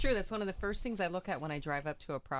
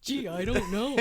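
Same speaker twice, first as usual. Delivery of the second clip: sarcastic; 4 semitones higher, 5 dB louder than usual. Retold or imitated. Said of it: "sarcastic reply".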